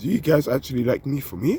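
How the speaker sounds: voice breaks, cracking partway through. Voicing a beautiful woman's inner doubt to listeners, with a voice crack. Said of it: "I have a voice crack there".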